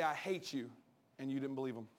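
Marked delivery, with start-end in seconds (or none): 0.0-0.7 quiet, low I hate you; muttered child's line. Retold or imitated. Preacher quoting a kid to his mom, low and quiet. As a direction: say it low and subdued. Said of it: "When your kids say".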